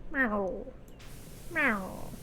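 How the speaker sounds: quiet cat meow; soft meow. Pretend. Player idly mimicking a cat, soft meow.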